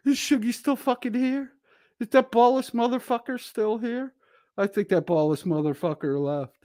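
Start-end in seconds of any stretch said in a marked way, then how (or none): 0.1-4.1 laughing mockery. Real, not acted. Mocking a chatter after laughing.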